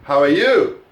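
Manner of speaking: "you" punched loud, rising high; how are YOU, with the weight landing on "you"; stress on "you". Shown as a demonstration. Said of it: "which word did I stress".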